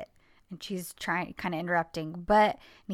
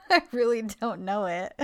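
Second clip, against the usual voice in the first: laughing through quote. Real, not acted. Quoting him while laughing.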